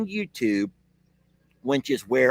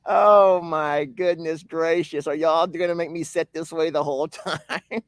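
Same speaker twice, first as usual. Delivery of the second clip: laughing; 2 semitones higher than usual. Real, not acted. Laughing at being squeezed aside.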